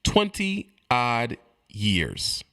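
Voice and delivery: each word of "Twenty odd years" drawn out and separated; very slow, low, spaced-out words; slow emphasis. Real, not acted. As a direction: let every word land on its own, slowly. Repeats figure slowly for emphasis.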